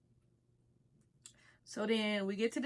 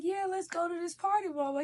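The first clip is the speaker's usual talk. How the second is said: mock girl voice; 7 semitones higher than usual. Girl's invite voiced in story.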